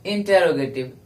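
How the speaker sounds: इंटरोगेटिव with a separate "te-ro" in the middle; full pronunciation. Shown as a demonstration. Teacher introducing the term to students, इंटरोगेटिव said as in-te-ro-ge-tiv. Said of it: "वो गलत है".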